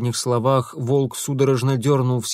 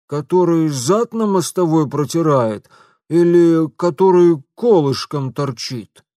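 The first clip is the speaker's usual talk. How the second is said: high, loud outraged shopkeeper; indignant shopkeeper; 4 semitones higher, 6 dB louder than usual. Acted. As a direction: spit out the insult. Shopkeeper asks mockingly. (лавочник негодует)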